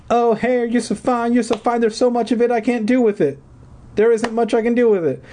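high theatrical singsong to the mirror; dramatic singsong lament. A narrator's reading. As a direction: overact a sighing complaint.

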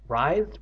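"Writhed" with a long eye vowel; pronunciation query. Real, not acted. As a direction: say "Writhed" as "rythed", questioning. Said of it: "How do you pronounce that?".

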